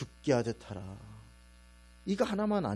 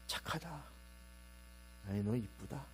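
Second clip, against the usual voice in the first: softly praising the dog; soft praise; 2 semitones lower, 12 dB quieter than usual. Retold or imitated. Speaking softly to the dog, gentle praise. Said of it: "목소리를 낮추고".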